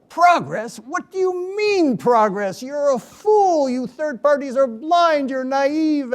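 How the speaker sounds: high, loud and slow furious rant; retold yelling. Chavez yells at the mediator in front of his ministers, loud and furious. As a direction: bellow the scorn at him. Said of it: "proceeded to yell".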